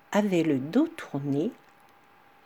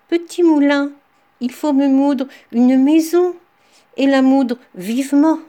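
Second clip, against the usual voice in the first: loud command; 5 semitones higher, 5 dB louder than usual. Acted. Woodcutter commands the magic mill.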